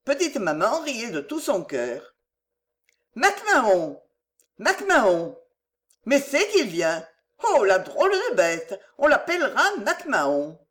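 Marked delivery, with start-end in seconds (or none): 3.2-10.6 high, laughing calls to a puppy; delighted calling. Acted. Maman joue avec le chien, ravie. (appels ravis et rieurs)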